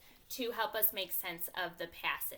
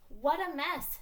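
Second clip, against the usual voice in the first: higher, louder mother's exclamation; read-aloud dismay, pitched up and loud; mom exclaiming; 8 semitones higher, 6 dB louder, slower than usual. A narrator's reading. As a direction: exclaim it like a mom finding a mess. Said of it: "said Mom".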